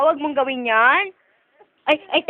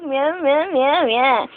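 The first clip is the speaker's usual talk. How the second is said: playful meowing; much slower than usual. Pretend. Parent entertains baby with meows, playful cat imitation.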